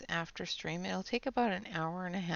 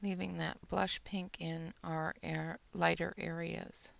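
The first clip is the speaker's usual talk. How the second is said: whispering; 4 dB quieter than usual. Real, not acted. Whispers while coloring on stream.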